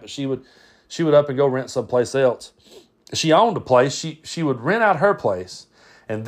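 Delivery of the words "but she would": usual speaking voice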